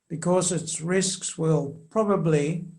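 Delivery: slow, with probably leaned on hard; stress on probably. Shown as a demonstration. Explaining to the interviewer why the Pope's word matters, stress on probably. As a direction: hit the word probably to underline it. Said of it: "I emphasize that word probably".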